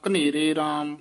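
ਘਨੇਰੇ ਰਾਮ as one unit, no gap; ਰਾਮ wrongly joined. Shown as a demonstration. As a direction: run ਘਨੇਰੇ straight into ਰਾਮ. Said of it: "ਇਸ ਤਰ੍ਹਾਂ ਨਹੀਂ ਕਹਿਣਾ".

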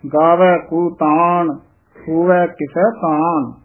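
slow recitation with a light, soft ਕਿਸੈ. Shown as a demonstration. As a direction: keep ਕਿਸੈ gentle. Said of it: "ਕਿਸੈ ਪੋਲਾ ਹੀ ਉਚਾਰਨ ਕਰਨਾ ਹੈ".

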